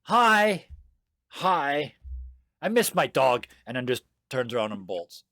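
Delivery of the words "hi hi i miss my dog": put-on higher, louder child's voice; child blurting it out, pitched up; little girl. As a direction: pipe up like a small kid greeting strangers. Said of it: "looks at you and goes".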